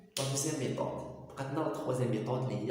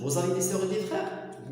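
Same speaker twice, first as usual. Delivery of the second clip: very slow "Vous avez des sœurs et des frères؟", falling at the end; slow wrong form; 3 semitones higher, much slower than usual. Shown as a demonstration. Teacher showing students the form not to use, slowly. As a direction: show the form to avoid, slowly. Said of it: "ما تتقولوش".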